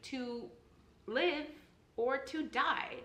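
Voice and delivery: "live" punched high after a pause, "die" high too; stress on LIVE, DIE. Shown as a demonstration. Teacher spelling out what Hamlet is asking, stress on "live" and "die". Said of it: "that's what we're asking".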